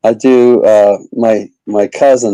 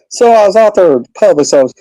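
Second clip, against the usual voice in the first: high-pitched hammed-up country redneck accent; Robbie the redneck; 9 semitones higher than usual. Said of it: "uh, country accent".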